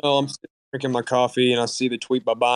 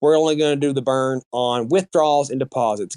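mock announcement. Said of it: "And then they go".

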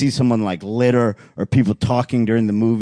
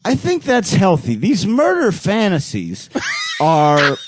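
therapist voice; 7 semitones higher, slower than usual. Retold or imitated. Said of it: "my guy goes".

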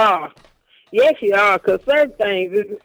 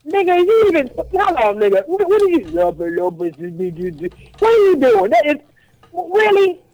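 can't believe what he's hearing; shocked disbelief; 8 semitones higher than usual. Real, not acted. Reacting to the cohost's filthy French, high and shocked.

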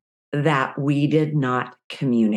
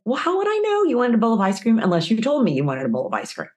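higher, fast airtight-logic retort; smug husband logic; 6 semitones higher, faster than usual. Retold or imitated. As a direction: rattle off his reasoning smugly. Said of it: "And he said".

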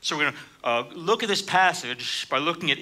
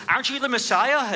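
mocking; 9 semitones higher, 3 dB louder than usual. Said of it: "he mocks him".

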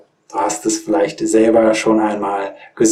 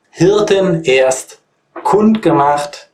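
slow, sing-song carol recital; poem recitation; 6 semitones higher than usual. Acted. Recites the carol line again.

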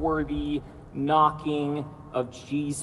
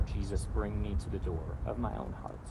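softer, slower prayer; slow breath prayer; 5 semitones lower, 9 dB quieter than usual. Shown as a demonstration. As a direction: pray it quietly with them. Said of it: "I'll invite you to pray that prayer".

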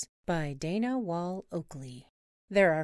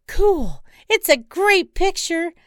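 much higher, louder, overjoyed squealing; thrilled shriek; 11 semitones higher, 11 dB louder, slower than usual. Acted. Wife spotting penguins, squealing with delight.

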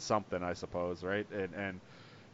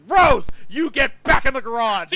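higher, louder mock order to Rose; mock scolding; 10 semitones higher, 9 dB louder than usual. Mocking how the film sidelined Rose, hammed-up scold. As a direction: bark at her like a stuck-up boss. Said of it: "they might as well have gotten a broomstick and been like".

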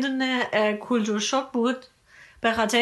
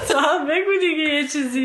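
laughing; 4 semitones higher than usual. Real, not acted. Teasing co-host while laughing.

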